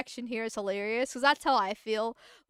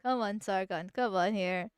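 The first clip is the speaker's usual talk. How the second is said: exasperated disbelief; 4 semitones lower, 4 dB quieter than usual. Retold or imitated. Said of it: "It's like".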